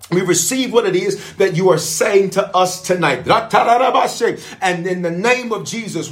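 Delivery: fervent closing prayer. Acted. Pastor covering viewers in prayer, fervent and steady. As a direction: pray it over them with conviction.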